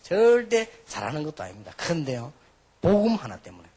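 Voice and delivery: normal talking voice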